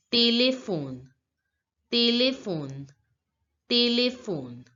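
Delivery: "téléphone" as tay-lay-fon, repeated for learners; French "téléphone", each take set apart by pauses; French pronunciation. Shown as a demonstration. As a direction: model "téléphone" with clear é vowels. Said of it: "the pronunciation in French becomes".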